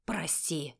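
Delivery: a father muttering sorry after slapping his daughter; mumbled apology. A narrator's reading. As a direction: grunt the word out reluctantly. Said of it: "буркнул".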